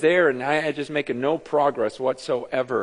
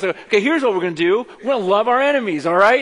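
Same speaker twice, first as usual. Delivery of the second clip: hyped quarterback; 6 semitones higher, 7 dB louder than usual. Retold or imitated. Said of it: "the quarterback calls a play and goes".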